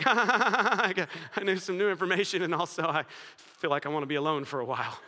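put-on excited little boy. Little boy laughing to his brother after the talk. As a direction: act out a giddy five-year-old bursting with news. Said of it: "They're a little bit excited".

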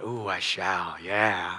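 savouring. Shown as a demonstration. Acts out savouring the verse.

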